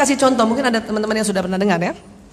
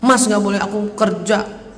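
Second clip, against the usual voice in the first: mildly indignant, climbing higher towards the end; indignant complaint; 4 semitones higher than usual. Acted. Widow protesting her husband never let her work, mildly indignant.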